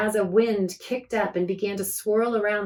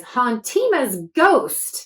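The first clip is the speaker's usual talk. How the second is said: catchphrase; 3 semitones higher, 5 dB louder, much slower than usual. Acted. Akiko's catchphrase.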